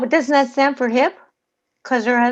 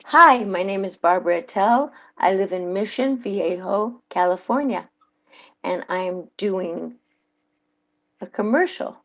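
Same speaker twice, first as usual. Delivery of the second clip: ad read; 4 semitones lower than usual. Shown as a demonstration. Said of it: "here we go".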